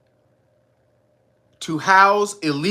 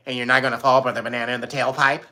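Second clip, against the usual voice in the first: incredulous quote; 8 semitones lower, faster than usual. Retold or imitated. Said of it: "He said".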